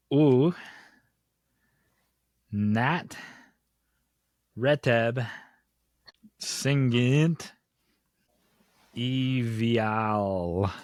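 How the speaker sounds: words read backwards letter by letter, slowly, with long pauses between; each word sounded out reversed, one at a time; backwards speech. Shown as a demonstration. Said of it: "So I'm gonna read it backwards".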